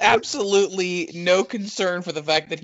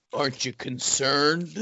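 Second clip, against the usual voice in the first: a touch slow, mock-serious imitation of a friend; deadpan; 5 dB quieter, slower than usual. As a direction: quote him dead straight, lightly mocking. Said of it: "deadpan and goes".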